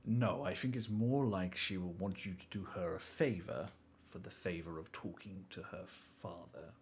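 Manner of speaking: measured in-game character. Acted.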